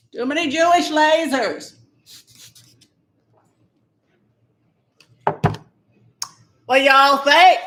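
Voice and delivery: camp it up as a whiny party-loving congresswoman; Marjorie Taylor Greene. Acted. Comic doing a political impression for viewers, high mock whine. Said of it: "This is my Marjorie Taylor Greene impersonation".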